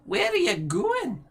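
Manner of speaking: put-on high old hag approving; crone voice. Ethel praises her sister's plan, high crone voice.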